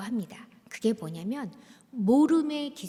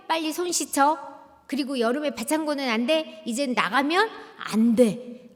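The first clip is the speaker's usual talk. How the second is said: insistent mother; 3 semitones higher, 5 dB louder than usual. Retold or imitated. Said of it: "들을 생각이 없어요".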